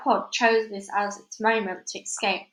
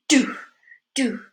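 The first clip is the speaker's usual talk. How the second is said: thumping sound; 3 semitones higher, 5 dB louder than usual. A narrator's reading. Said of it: "a gloved hand thumped".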